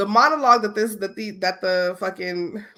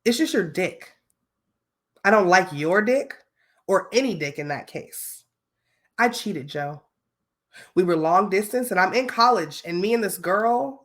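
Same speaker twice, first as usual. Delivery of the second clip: acting voice. Shown as a demonstration. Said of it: "I'm gonna put my acting voice on".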